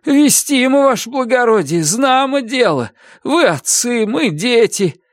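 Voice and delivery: high, begging convict voice; pleading prisoner. A narrator's reading. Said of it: "кричит арестант".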